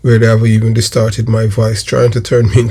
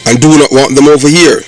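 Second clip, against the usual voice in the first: announcer intro. Acted. Channel intro read over music.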